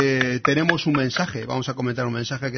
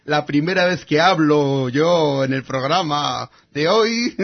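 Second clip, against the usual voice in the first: mock complaint; 5 dB louder, slower than usual. Joking complaint about not speaking.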